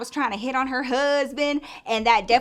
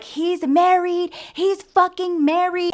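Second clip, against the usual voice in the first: high, loud, drawn-out mock outburst; yelled accusation; 8 semitones higher, 5 dB louder, slower than usual. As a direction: imitate an outraged woman hollering. Woman escorted out, yelling accusation.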